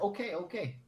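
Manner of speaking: small, high imitated Asian accent; Asian lady accent. Asian lady agreeing to go inside, mock accent. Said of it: "And then she's like".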